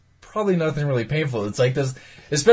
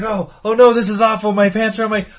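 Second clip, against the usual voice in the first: panicked ghost; 6 semitones higher than usual. Retold or imitated. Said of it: "he's like".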